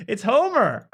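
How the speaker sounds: Homer Simpson impression, high and loud. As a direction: do the Homer bit. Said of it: "that is a Homer scream".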